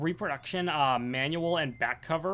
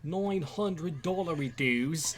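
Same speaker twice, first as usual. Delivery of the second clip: slow, softer Aussie echo; Australian accent; 5 dB quieter, much slower than usual. Retold or imitated. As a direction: savour the quote, drawn out. Repeats the quote slowly, softer.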